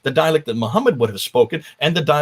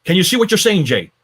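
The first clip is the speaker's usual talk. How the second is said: retold exclaim; 5 semitones higher, 5 dB louder than usual. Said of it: "And she said".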